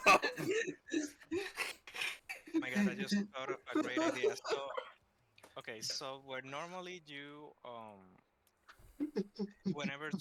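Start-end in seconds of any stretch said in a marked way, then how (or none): 0.1-4.6 loud, high burst of excitement; excited. Real, not acted. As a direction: blurt out a sudden idea. Sudden idea blurted out.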